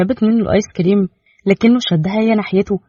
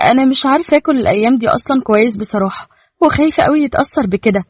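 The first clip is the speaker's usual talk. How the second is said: put-on anxious young wife; 5 semitones higher than usual. Young wife voiced by narrator.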